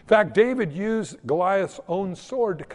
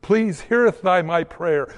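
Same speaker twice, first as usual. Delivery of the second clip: mock King James prayer; 5 semitones lower than usual. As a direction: mimic a pompous old-fashioned prayer. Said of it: "pray in sixteenth century King James English".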